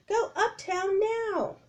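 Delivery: high, slow, loud order; yelling. Acted. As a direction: push them to leave. Annie yelling at crowd.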